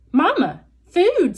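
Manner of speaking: gosling begging its robot mother; peeping gosling. Acted. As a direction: beg like a hungry hatchling. Gosling asks for food.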